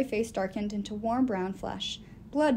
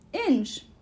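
calling out; 5 semitones higher, 4 dB louder than usual. A narrator's reading. Alderman calls the holder.

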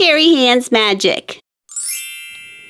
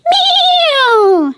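laughing meow; 12 semitones higher than usual. Acted. Cat says no, laughing.

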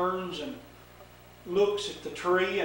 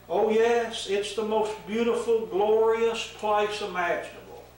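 lightly voiced eager Eve; 3 semitones higher than usual. Eve answering the serpent, a touch higher and eager. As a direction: gush like an innocent happy Eve.

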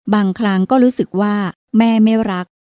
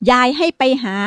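calling; 4 semitones higher than usual. Acted. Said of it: "ประภาตะโกนบอกอีกสองสามรอบ".

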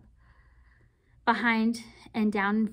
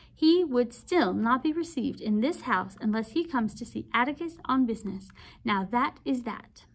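lightly voiced aunt laying down the law; a hint of a firm matron closing the matter; aunt refusing the girl's friend, firm and lightly voiced; stern aunt forbidding; 3 semitones higher than usual. Aunt forbidding Walter's visit.

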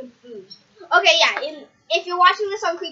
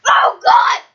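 higher, louder cry of shock; shout; 10 semitones higher, 6 dB louder than usual. Real, not acted. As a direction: cry out at the sourness. Sour candy hits.

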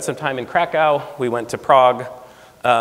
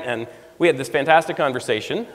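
ordinary delivery

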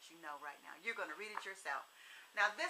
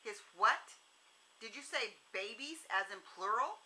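snapping. Acted. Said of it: "Zoe snapped".

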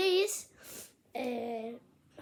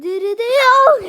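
being tickled; 6 semitones higher, 17 dB louder than usual. Real, not acted. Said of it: "Ama gıdıklamak yok".

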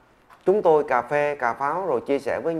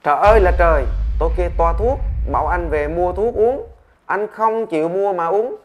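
loud, high exasperated outcry; doctor exclaiming; 5 semitones higher, 6 dB louder than usual. Acted. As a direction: throw up your hands and cry out at him. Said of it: "Bác sĩ liền thốt lên". (bác sĩ thốt lên bực tức, to và cao)

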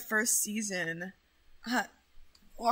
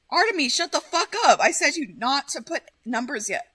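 angry yelling; 4 semitones higher, 5 dB louder than usual. Real, not acted. Scolding chat.

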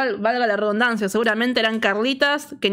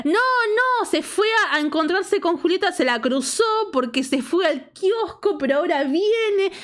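higher-pitched, hasty-sounding excuse in a retold quote; insistent cover story; 5 semitones higher than usual. Aldana intercedes to cover for her friend, insistent excuse. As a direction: play the friend stepping in to explain.

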